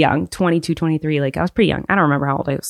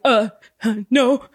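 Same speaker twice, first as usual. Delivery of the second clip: higher, stumbling nervous mock answer; flustered stammer; 5 semitones higher than usual. Young performer stammering to the customs officer, flustered and high. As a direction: replay the panic of being caught out. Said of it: "just a mess".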